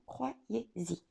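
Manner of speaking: quiet, heartfelt, falling away; soft sincere plea. Real, not acted. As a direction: say it softly, from the heart. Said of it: "sincèrement".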